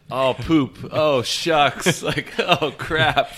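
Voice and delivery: high, loud mock fuss over a missed putt; mock mild cursing. Host mocks caddy's tame cursing, high and loud. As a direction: squeak out tame swear words in a put-on prissy voice. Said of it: "Can you attest that he's not like".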